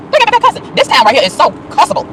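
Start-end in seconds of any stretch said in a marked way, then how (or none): 0.1-0.6 same words jumped way up in a comic squeal; high squeal. Real, not acted. To viewers about the town, comic high-pitched squeal. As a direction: squeak it out in mock outrage.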